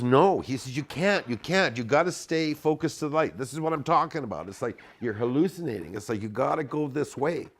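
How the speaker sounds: high, loud, urgent insistence; shouting John. Retold or imitated. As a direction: yell it at him, high and pushy. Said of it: "He goes".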